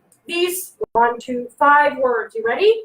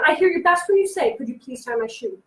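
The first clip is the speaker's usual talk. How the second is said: calm modelling. Shown as a demonstration. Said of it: "you're gonna say".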